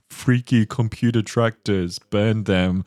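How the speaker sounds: slow, scornful mob chant; angry mob voice. Pretend. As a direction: sneer it like a torch-waving villager. Mocking anti-technology mob.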